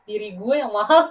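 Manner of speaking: laughing. Real, not acted. Jokes about herself, laughing.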